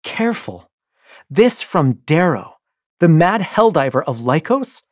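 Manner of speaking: loud, high, patronizing scorn; wife taunts her husband, loud and mocking; taunting wife. Io taunts Darrow.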